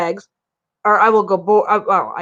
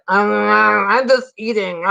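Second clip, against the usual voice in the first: koala voice; much slower than usual. Retold or imitated. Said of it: "And he's like".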